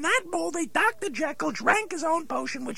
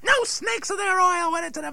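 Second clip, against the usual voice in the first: indignant; 3 semitones higher, 4 dB louder than usual. Acted. Dummy denies it indignantly.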